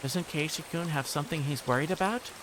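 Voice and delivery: sweetly insistent, with menace underneath; sweet creepy girl. Acted. Reina coaxing Keiichi to talk, creepy sweetness.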